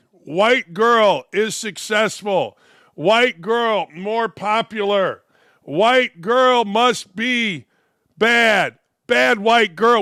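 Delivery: slow, blunt mock simpleton talk; mock caveman logic. Mocking critics with slow blunt words. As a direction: drag it out like a dim parody.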